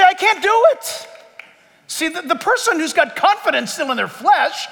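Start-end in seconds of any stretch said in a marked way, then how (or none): 0.0-1.1 raised, earnest confession; humble admission. Retold or imitated. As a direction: admit it plainly and earnestly. Humble Christian voiced.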